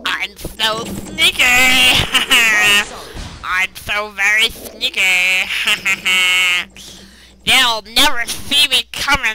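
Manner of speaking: sneaky imp voice. Retold or imitated. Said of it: "he actually sounds like that".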